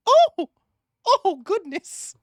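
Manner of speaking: high gasp of surprise; oh goodness, startled and high; surprised. Real, not acted. Surprised at the clock.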